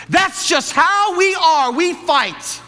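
high slow mocking repeat. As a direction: stretch each word out in mockery. Repeats couple's line mockingly.

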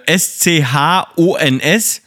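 Chance spelled out letter by letter; slow, separate letters for S C H O N S. Shown as a demonstration. Explaining to the co-host how Chance is pronounced, spelled out slowly. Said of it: "so spreche ich es nämlich aus".

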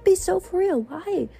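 exasperated disbelief. Real, not acted. Exasperated rant about repeated ghosting.

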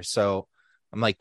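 ordinary talk, nothing marked

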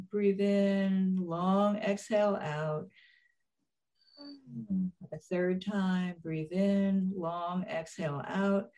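slow, calm meditation guide voice; guided meditation. Acted. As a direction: lead them gently into relaxation. Penny leads the guided meditation.

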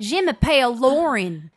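showing off a put-on French accent. Shown as a demonstration. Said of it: "that sounds a lot better than".

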